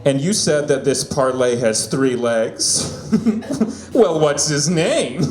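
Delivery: slow, drawn-out caricature of a gay guy, tickled; gay sports bettor. Pretend. Gay guy asks about his parlay, in hammed-up impression. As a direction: play a gay guy new to betting, stretching the words. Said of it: "my impression of a gay guy who's getting into sports betting".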